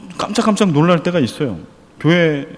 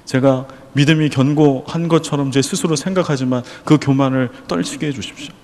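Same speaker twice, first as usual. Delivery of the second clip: prayer; 2 semitones lower than usual. Acted. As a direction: pray it humbly before God. Pastor voices a model prayer. (간절하게 낮춰 드리는 기도)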